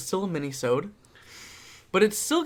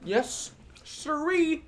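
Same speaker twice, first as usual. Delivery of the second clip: mock drawl; 10 semitones higher, 3 dB quieter, much slower than usual. Playful drawled agreement.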